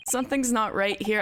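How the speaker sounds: trying to sound serious, laughter leaking through; a grin you can't hide; still giggly. Real, not acted. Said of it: "I'm, like, still laughing".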